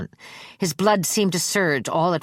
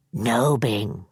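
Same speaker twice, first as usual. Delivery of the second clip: put-on low, gentle old man; 5 semitones lower than usual. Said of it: "Charlie said gently".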